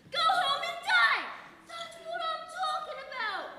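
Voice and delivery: high, loud rant that peaks in a scream on go home and die; escalating shout. Retold or imitated. Heated shouting match with catcaller.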